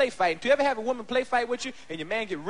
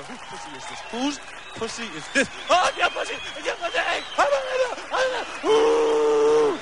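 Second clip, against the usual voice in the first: hammed-up sex talk; 6 semitones higher than usual. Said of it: "you start talking to her".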